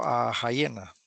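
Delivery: "a hiena" with a rasped H like ja; H sounded. Shown as a demonstration. To the class, showing the H that sounds. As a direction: breathe a strong ja for the h in "hiena". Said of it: "aquí sí suena la H como ja".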